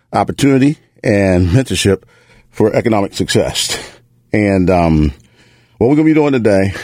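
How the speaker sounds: breathless from running; out of breath, gasping lightly. Real, not acted. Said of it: "a little out of breath, I've been running".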